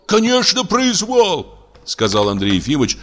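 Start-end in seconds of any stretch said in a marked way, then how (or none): 0.1-1.5 excited agreement. A narrator's reading. Doctor echoing his fellow patient, crying out. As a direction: shout in eager agreement.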